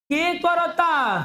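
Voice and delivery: high, slow shouted question to the class. Real, not acted. Teacher shouting his question at the class.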